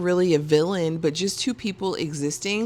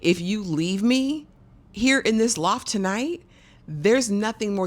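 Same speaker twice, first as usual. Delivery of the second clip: begging; 5 semitones higher, 4 dB louder than usual. Retold or imitated. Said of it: "she's begging him".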